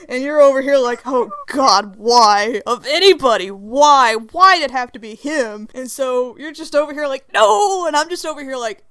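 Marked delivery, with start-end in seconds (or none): 1.1-5.7 anguished lament. Acted. Friend laments who has arrived. 7.3-7.9 high, loud mock-frightened NO; scared no. Friend facing Lucifer, scared no. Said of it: "you're scared no".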